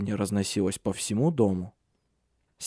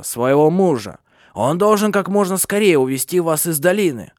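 high, loud crone exhorting; much higher, forceful old-witch voice; urgent old woman; 6 semitones higher, 5 dB louder than usual. A narrator's reading. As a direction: press her as the old matriarch, brusquely. Old Hanna exhorts Silia.

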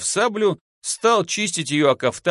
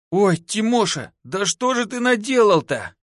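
high-pitched lament; whining dismay; 7 semitones higher than usual. A narrator's reading. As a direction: wail in alarm at a friend's deed. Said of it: "продолжал скулить Костка".

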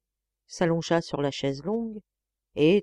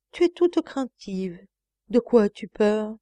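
coaxing tenderness; 4 semitones higher, 4 dB louder than usual. Acted. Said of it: "un ton dont je ne saurais rendre la douceur câline".

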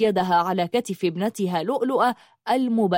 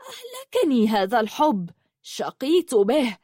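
bitter fury. Acted. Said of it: "قالت بحنق شديد".

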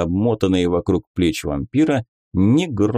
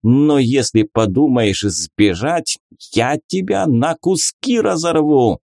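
angry priest; 6 semitones higher than usual. A narrator's reading. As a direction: threaten him with rising fury. Priest threatening the vampire.

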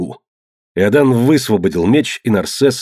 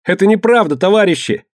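high, pleading protest; panicked raised-voice denial; desperate cry; 10 semitones higher than usual. A narrator's reading. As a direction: appeal to comrades at a high pitch. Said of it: "кричал Квинт".

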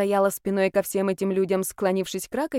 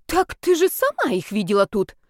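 higher, a touch louder, gasping disbelief; gasping indignation; 4 semitones higher, 3 dB louder than usual. Acted. Tatyana gasping at the young mother, outraged disbelief. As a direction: gasp it out, outraged. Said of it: "ахнула Татьяна".

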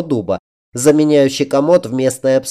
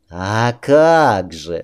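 smiling; 3 semitones lower, much slower than usual. A narrator's reading. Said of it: "улыбнулась бывшая королева".

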